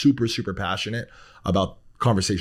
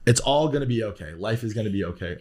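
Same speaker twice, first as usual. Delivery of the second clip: soothing. Real, not acted. Comforting crying guest.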